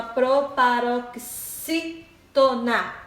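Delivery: "proparoxítona" slow and broken into chunks; drawn-out pro-parok-SÍ-to-na; syllable by syllable. Shown as a demonstration. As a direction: sound out "proparoxítona", pausing before TO-NA. Teacher sounding out the term.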